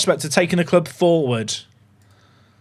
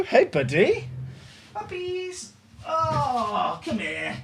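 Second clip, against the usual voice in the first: high sing-song voice for a puppy; pet talk; 6 semitones higher, 9 dB quieter, much slower than usual. Real, not acted. Streamer greeting his dog, high cooing pet voice.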